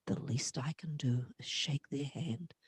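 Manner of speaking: soft whispered confidence. Retold or imitated. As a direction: whisper it like a sacred truth. B B's quiet wisdom retold.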